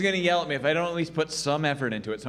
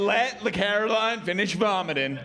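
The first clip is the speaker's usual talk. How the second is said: firm, matter-of-fact coach ruling; a touch of no-nonsense teacher; lightly voiced gym coach; 5 semitones higher than usual. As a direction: lay out the options like a fed-up coach.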